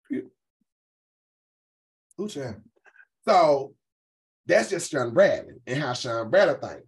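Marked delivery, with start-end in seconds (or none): 0.1-2.6 breathy whispered sneer, lower; mock whisper. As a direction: whisper it like a snide aside. Mocking who's in the chat.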